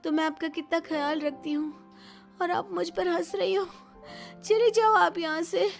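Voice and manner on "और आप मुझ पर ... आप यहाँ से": higher voice rising to a loud order; angry dismissal. Acted. Sick daughter-in-law orders mother-in-law out, angry. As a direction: send them away, hurt and angry.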